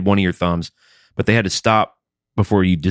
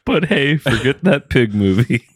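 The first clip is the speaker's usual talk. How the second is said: higher-pitched echo of a Boston critic; mimicked Boston accent; 7 semitones higher than usual. Co-host echoing the critic's sign-off, mock Boston accent.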